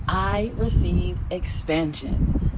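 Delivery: very slow, settled affirmation. Shown as a demonstration. Repeating affirmation for viewers, very slow. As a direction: drag each word out and land it. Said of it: "Repeat after me".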